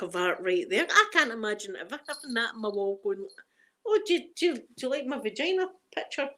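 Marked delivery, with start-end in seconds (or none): 3.9-6.3 high-pitched pretend hostess; mock proud host. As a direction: lightly put on a host showing off to guests. Imagined host showing off artwork.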